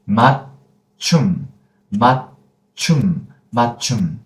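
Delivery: 맞춤 with 맞 stopped short before 춤; cut and closed. Shown as a demonstration. Teacher shows no linking possible, 맞춤 cut in the middle. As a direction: cut 맞 on an unreleased t, then 춤. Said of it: "we still have to cut and close".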